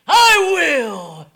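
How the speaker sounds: loud declaration easing to slow softness; Jesus healing. Acted. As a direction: call it out, then settle it gently. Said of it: "and saying".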